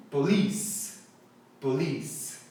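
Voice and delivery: police spaced out as po-LEECE; model pronunciation. Shown as a demonstration. Teacher asking viewers to repeat, model pronunciation of police. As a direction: say police for repetition, stressing LEECE. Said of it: "Então fala comigo".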